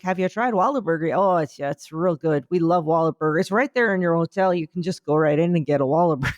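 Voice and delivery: mock Canadian driver accent, lightly done; chirpy Canadian sell, lightly voiced. A Toronto driver pushing Whataburger, in a light Canadian accent. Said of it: "I appreciate that accent".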